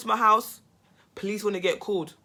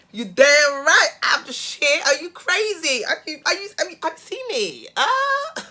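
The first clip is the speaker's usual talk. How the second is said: much higher and much louder, brash boast; cocky bragging; 8 semitones higher, 10 dB louder than usual. Retold or imitated. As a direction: shout it like you own the room. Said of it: "I was just like".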